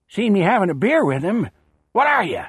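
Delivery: a gravelly barfly scoffing; gruff Irv voice. A narrator's reading.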